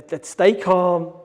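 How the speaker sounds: slow steady self-instruction; slow yourself down and stay level; calm self-talk. Retold or imitated. Negotiator calming himself before the next call, slow and steady. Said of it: "Right, okay".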